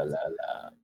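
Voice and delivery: fading hola. Pretend.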